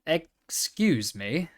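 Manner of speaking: polite. Acted. Pony politely asks a carousel horse, slow and polite. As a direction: ask very politely, drawing it out. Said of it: "as politely as he could".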